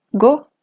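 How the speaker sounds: "go" on a high tone. Shown as a demonstration. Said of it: "Todas estas palabras tienen tono alto".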